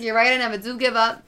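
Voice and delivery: hint of a Bronx accent; lightly voiced Bronx accent. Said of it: "a Bronx accent now".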